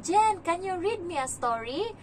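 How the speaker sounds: slow, high-pitched little pleading; imitated child's request. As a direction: mimic a little kid asking for a story. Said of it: "Sabi niya".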